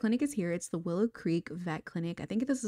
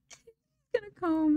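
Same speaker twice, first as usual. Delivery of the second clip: laughing; 12 semitones higher, 3 dB louder, slower than usual. Real, not acted.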